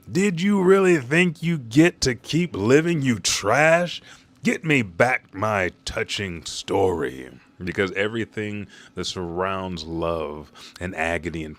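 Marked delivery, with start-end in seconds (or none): 0.1-4.0 high, loud villain's rage; livid yelling. Retold or imitated. Livid Saint Somers at his escaping victims, yelling. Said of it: "livid, mouth wide open, yelling". 4.4-7.3 slow, drawn-out demand; livid villain. Retold or imitated. Livid Saint Somers demanding his story back, seething. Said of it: "Somers is fucking livid".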